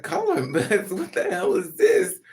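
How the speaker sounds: high, loud, laughing outrage; mock the offer through laughter; laughing disbelief. Mocking disbelief at color offer.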